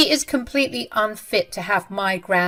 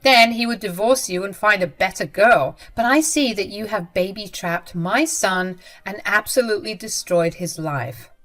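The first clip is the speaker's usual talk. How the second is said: louder, cutting accusation; mother-in-law attacking daughter-in-law, louder and spiteful; spiteful retort; 4 dB louder than usual. Acted. Jenny retorts with insults.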